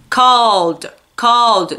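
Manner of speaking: called as one syllable, "cawld"; called, no E in the ending; voiced D ending. Shown as a demonstration. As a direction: say called with a D straight after the L. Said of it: "Você vai pronunciar o D".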